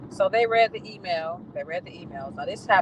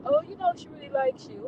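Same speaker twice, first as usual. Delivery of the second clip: mocking the manager; 3 dB quieter than usual. Quoting the manager's excuse.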